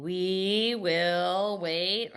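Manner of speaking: "We will wait" drawn out evenly; mock choppy student reading; slow word-by-word read. Shown as a demonstration. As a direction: read each word slowly, separately. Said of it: "I get the same thing".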